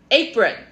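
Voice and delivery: Apron said clearly, stress on a; slow teacher model of Apron; model pronunciation. Shown as a demonstration. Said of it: "So say it with me".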